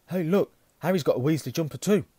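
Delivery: high, loud call. Acted. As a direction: call out the news. Twin calls out teasing.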